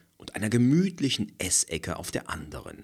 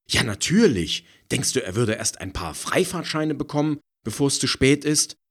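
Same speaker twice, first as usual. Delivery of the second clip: indignant; 9 semitones higher, 6 dB louder than usual. A narrator's reading. Indignant retort.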